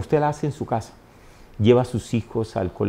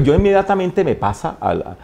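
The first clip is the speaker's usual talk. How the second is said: normal talking voice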